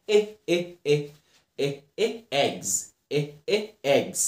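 short open "eh" repeated, then "eggs"; short E drill. Shown as a demonstration. Teacher drills the E sound for learners, short "eh, eh, eggs". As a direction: sound out the open E in little separate bursts before "eggs". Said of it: "The E makes a sound".

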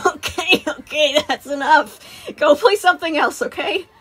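firm, lifted voice. Acted. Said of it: "when he rose his voice".

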